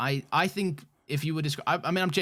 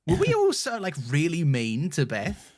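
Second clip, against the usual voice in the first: retold protest; 4 dB louder than usual. S1 recalling sticking up for Beth, retold protest. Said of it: "there were some times where I'm like".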